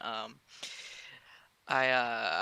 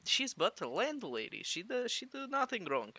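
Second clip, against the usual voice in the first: hushed tones; 7 semitones higher, 6 dB quieter than usual. Acted. Vyacheslav pulls Smith aside in hushed tones. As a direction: pull him aside and hiss it quietly. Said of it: "gets down, like, hushed tones".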